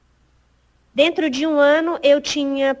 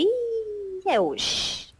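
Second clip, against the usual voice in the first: acted dread; 8 semitones higher, 6 dB quieter, much slower than usual. Employee called to a meeting expects firing, mock dread. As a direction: sink from a high wince into quiet resignation.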